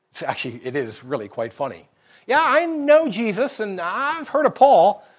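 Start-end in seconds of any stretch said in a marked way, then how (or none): 2.2-4.9 mocking, jeering demon voice. Speaker retells a story where a demon answers those casting it out, retelling a demon's mockery. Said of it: "And the demon mocks them".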